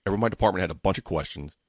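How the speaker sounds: rushed, rapid-fire delivery; hurried run-on pace; talking too fast. Real, not acted. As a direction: rattle it off quickly. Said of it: "felt like I talked too fast there".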